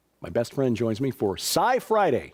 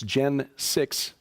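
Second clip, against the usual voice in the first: slow and deliberate. Shown as a demonstration. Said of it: "spelled out".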